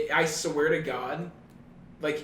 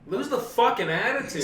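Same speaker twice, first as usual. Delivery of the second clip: indignant rant; 6 semitones higher, 4 dB louder than usual. Pretend. Ranting at the French.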